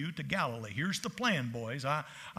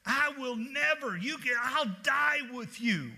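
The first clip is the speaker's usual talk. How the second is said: higher, slow earnest vow; fervent Peter; 6 semitones higher, slower than usual. Retold or imitated. Peter vowing to Jesus, imitated fervently. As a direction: swear loyalty, slowly and pitched up. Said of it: "He said".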